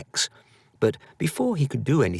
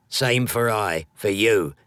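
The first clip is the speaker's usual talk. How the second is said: gravelly voice. Acted. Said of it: "it said with a gravelly voice".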